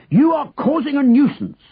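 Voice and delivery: high, indignant official rebuke; bellowing. A narrator's reading. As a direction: scold him like an outraged policeman. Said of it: "the policeman bellowed".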